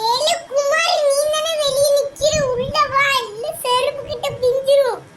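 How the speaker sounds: high, loud scolding shout at a brother; scolding call. Acted. Sister calling brother in from outside, loud scolding. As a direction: yell him inside, threatening.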